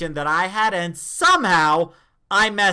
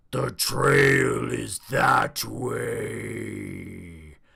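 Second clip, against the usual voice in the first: very low, very slow, hushed, "way" stretched out; 7 semitones lower, 5 dB quieter than usual. Speaker recalls playing a Grim Reaper rising from the grave, deep Grim Reaper voice. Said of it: "let me get into the deep voice".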